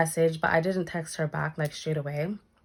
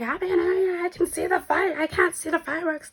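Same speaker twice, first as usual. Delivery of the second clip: high, tearful wail; imitating crying sister; 13 semitones higher than usual. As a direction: mimic her sister sobbing down the phone. Sister calling, crying heard.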